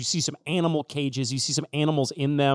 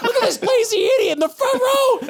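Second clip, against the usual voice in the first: high squawking heckler insulting the crowd; insulting parrot; 3 dB louder than usual. Acted. GM voicing parrot Wally heckling the crowd, high squawk. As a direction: roast the audience in a shrill bird voice. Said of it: "And Wally says".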